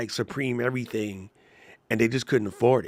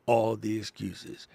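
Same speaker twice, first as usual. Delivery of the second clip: higher, slower, emphatic reread; louder for the back; 4 semitones higher, slower than usual. Shown as a demonstration. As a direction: preach it to the back row. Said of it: "Louder for the people in the back".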